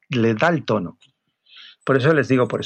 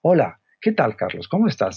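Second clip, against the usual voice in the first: friendly greeting. Shown as a demonstration. Models a friendly email opening.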